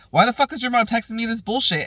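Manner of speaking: high, fast annoyed demand; irritated complaint. Retold or imitated. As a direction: imitate his exasperated outburst. Voices Raymond's irritated reaction.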